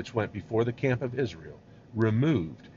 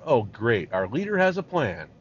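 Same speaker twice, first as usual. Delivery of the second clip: lightly sarcastic complaint, rising at the end; mock crying out; 3 dB louder than usual. The people answering Moses, mildly sarcastic outcry. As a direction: grumble out loud in mock dismay. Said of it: "And they cried out".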